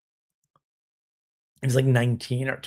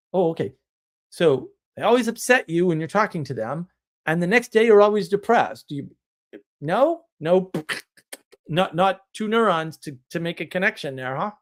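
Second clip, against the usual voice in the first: teasing, mock-incredulous, higher; sarcastic retelling; 3 semitones higher than usual. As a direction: poke fun at the missed connection, lightly. Retold sarcastic reply to client.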